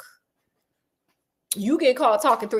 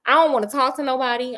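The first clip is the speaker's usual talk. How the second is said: lightly voiced Mycroft, higher and fast; breezy offhand brother, pitched up a bit; sassy Mycroft; 5 semitones higher, faster than usual. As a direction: Mycroft waving him off, a hint higher and quick. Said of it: "And so my girl was like".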